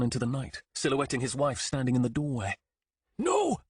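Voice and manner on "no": high, loud desperate cry; yell. Acted. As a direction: yell to stop his wife. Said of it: "he yelled".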